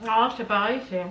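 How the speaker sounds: talking through a mouthful; words round a bite of food; mouth full. Real, not acted. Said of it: "je parle avec la bouche pleine". (la bouche pleine)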